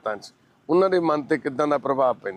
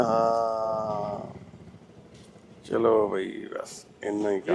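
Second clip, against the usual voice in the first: normal talking voice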